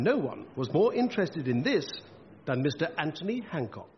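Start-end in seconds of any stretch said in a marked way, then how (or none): none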